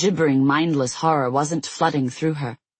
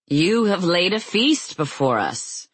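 shouting; 4 semitones higher than usual. Acted. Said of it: "shouted Phobos".

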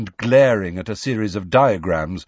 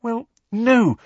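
placatory; 14 semitones higher, 4 dB louder than usual. A narrator's reading. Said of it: "stretching out a placatory hand towards him".

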